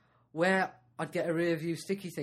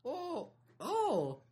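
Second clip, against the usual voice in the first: higher put-on girly voice; shop girl voice; 8 semitones higher, much slower than usual. Friend asks for the girl's voice, raised pitch. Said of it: "Do the voice".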